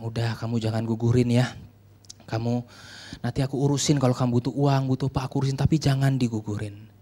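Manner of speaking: low, soft, fatherly counsel; lightly voiced reassuring pastor; calm reassurance. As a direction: gently plead and promise to help. Pastor calmly reassures the girl.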